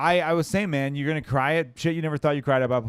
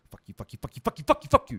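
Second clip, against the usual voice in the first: escalating fuck yous; 4 semitones higher, 3 dB louder than usual. Retold or imitated. Translating his dog's bark, escalating mock yells. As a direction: build the bark-curse into a high yelp. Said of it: "escalating fuck yous".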